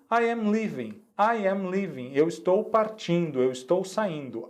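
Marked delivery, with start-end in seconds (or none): 0.1-2.1 I am leaving, pitched high with a falling close; bright model sentence. Shown as a demonstration. Teacher showing the example to students, raised and clear. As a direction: lift it up like a clear class example. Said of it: "Veja no nosso exemplo aqui".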